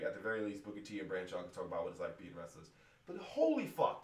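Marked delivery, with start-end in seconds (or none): 3.1-4.0 high, loud furious jab; angry jab. Real, not acted. Fan ranting at the announcer with a loud angry jab. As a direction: spit it at him.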